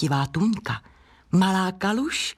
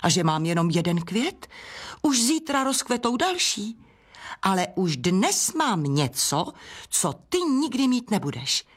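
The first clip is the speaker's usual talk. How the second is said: higher-pitched, lilting brag; vain boasting; 4 semitones higher than usual. Acted. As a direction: show off to a rival. Vain flower boasting to rival. (vychloubačné předvádění)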